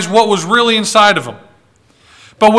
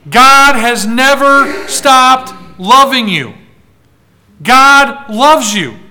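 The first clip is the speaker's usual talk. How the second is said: reassuring; slower than usual. Real, not acted. Reassuring reply after the devil's lie.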